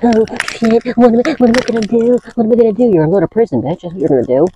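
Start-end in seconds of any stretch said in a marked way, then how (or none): 0.0-2.9 high-pitched hammed-up panic; mock freak-out. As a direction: imitate someone panicking, pitched well up. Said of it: "Now they're freaking out, like".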